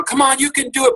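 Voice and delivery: high-pitched imitation of cheering; acted-out encouragement, high voice. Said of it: "kinda cheer her on".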